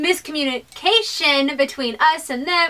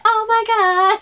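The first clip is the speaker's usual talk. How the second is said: imagined awe; 7 semitones higher, 4 dB louder than usual. Pretend. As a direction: gush it as if imagining being there. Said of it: "just be like".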